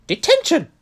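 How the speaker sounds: high, loud McGonagall shout; furious shout. A narrator's reading. McGonagall shouting at Malfoy caught at night. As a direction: bellow it at the caught boy. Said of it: "she shouted".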